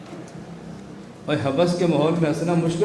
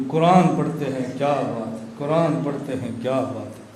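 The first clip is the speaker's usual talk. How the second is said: mock admiring; 4 semitones lower than usual. Mocking admirers praising Quran reading.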